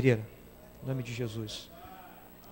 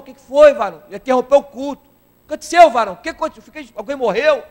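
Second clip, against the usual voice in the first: alarmed question; 7 semitones higher, 9 dB louder than usual. Retold or imitated. Pastor alarmed at interruption.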